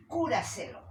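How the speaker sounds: cúraselo with the force on "cú"; stress on first syllable. Shown as a demonstration. Teacher offering another example, "cúraselo" stressed on cú. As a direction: lean on the start of "cúraselo", let the tail drop. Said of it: "¿Dónde lleva la fuerza de voz?".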